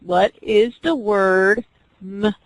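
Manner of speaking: slow, say "m-ile" with a break after m; "m-ile" spoken in two parts; segmented word. Shown as a demonstration. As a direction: split the word into sounds. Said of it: "the teacher said".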